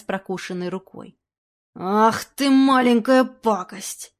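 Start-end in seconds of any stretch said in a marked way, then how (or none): 1.7-4.1 loud, slow snarl; angry curse. Acted. Robber cursing the biting animal, loud slow anger. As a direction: hiss out the insult.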